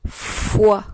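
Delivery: FOI with a lengthened f; dictation. Shown as a demonstration. Teacher dictating the third syllable to pupils, dictation voice. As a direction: dictate FOI as one careful, isolated syllable. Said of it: "les syllabes deux fois".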